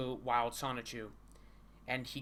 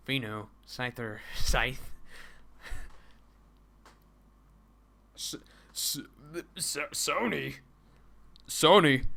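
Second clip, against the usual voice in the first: nose voice; 6 dB louder than usual. Pretend. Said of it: "I'm going to give them nose voice".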